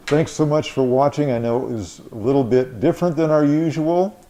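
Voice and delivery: muffled through a face mask. Real, not acted. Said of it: "Here I'm talking through the mask".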